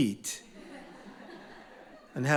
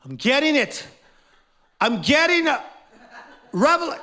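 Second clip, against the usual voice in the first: high, strained push, building louder; hammed-up straining, climbing higher; mock straining effort; 10 semitones higher, 4 dB louder than usual. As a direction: fake forcing it out with great effort. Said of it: "I don't think it's effort".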